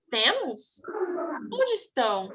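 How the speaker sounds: sceptical question with a sudden pitch peak; ironic. Acted. Teacher voices a comic's little boy to class, ironic. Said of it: "Ele foi irônico".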